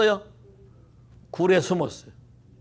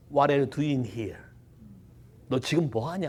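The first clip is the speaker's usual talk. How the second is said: low, soft and very slow; quietly; 6 semitones lower, 8 dB quieter, slower than usual. Shown as a demonstration. God quietly asks Elijah in the cave, slow and soft. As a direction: let the question hang, hushed and slow. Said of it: "조용하게".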